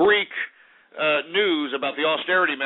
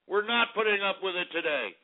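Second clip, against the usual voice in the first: softer, settled restatement; repeating the vow to the listeners, softer; quieter repeat; 3 semitones higher, 5 dB quieter than usual. Acted. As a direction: let the not land calmly.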